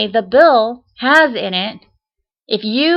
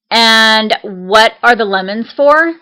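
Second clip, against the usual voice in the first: stern, slow, louder interrogating question; condescending interrogation, slow and firm; unfriendly tone; 2 semitones higher, 6 dB louder, slower than usual. Retold or imitated. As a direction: grill the customer like a suspicious clerk. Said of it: "she said this in a really, really unfriendly tone".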